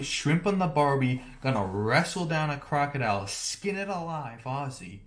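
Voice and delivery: hammed-up Aussie stereotype; mock Australian accent. Describing an unlikely Aussie match, mock Australian accent. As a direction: play a rough-and-ready Australian caricature. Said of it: "A full-blown".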